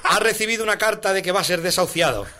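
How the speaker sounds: put-on chanted children's-rhyme parody; comic ballad recitation; singsong verse recital. Recites parody of Don Gato.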